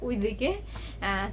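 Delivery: normal talking voice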